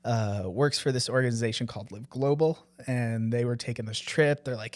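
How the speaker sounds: ordinary delivery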